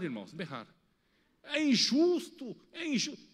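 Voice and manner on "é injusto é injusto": a hint of a child's high cry of protest; imitating a screaming child. Preacher imitating his sick daughter crying out, mock child cry. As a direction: mimic the little girl's protest, lightly. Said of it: "a minha filha começou a berrar".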